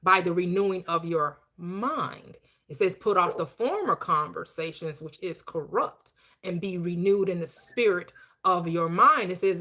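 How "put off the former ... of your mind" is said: slow, measured reading of a Bible verse; scripture recitation. Acted. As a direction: recite it like holy text, unhurried.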